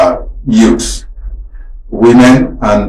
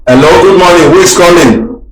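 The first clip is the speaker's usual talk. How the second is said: raised pitch, hailing a caller; calling out; 6 semitones higher than usual. Real, not acted. Host to an unanswering caller, calling out. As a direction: hail someone on a silent phone line.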